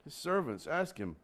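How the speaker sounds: measured, declaiming Bible reading; solemn public Bible reading; scripture reading. Acted. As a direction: read God's word with weight. Reads scripture aloud.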